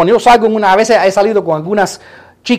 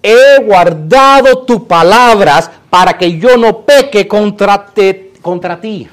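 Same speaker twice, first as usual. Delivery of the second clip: slow, loud preaching recitation; scripture declamation; 4 dB louder, slower than usual. Real, not acted. Preacher reciting scripture to the congregation, slow forceful declamation. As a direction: declaim each word slowly and with force.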